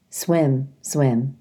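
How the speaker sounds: low, even robot echo. Acted. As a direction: say it flatly like a robot. Robot echoes gosling.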